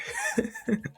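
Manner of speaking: high, soft mock chuckle; acted taunting laugh. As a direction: laugh as the cocky hero. Hero taunts the attacking villain.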